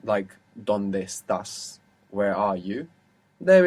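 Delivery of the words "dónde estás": "¿Dónde estás?" said slowly in Spanish, rising as a question. Shown as a demonstration. Teacher to student modelling "¿Dónde estás?" slowly. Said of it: "donde is a question word".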